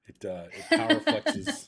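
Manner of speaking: high, loud and drawn out slowly; dramatic high voice. Pretend. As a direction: stretch it big and high, like a showman. Mock-dramatic aside about camera.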